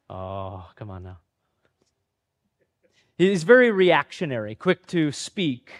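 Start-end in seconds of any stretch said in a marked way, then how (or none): 0.1-1.2 low, soft come on now; playful disbelief. Real, not acted. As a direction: scoff at yourself softly. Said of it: "self-deprecating aside".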